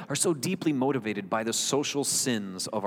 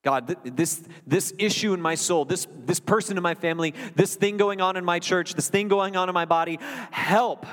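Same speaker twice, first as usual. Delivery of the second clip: higher-pitched, building cry for help; urgent plea; 5 semitones higher than usual. Acted. Preacher modelling honest prayer to God, urgent plea. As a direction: plead with mounting urgency.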